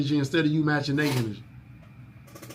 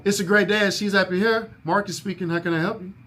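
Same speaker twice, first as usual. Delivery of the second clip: lifted, bright greeting a bit higher; sing-song phone voice; 5 semitones higher than usual. Shown as a demonstration. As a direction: answer with a sunny lilt. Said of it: "why I made my voice sound like that".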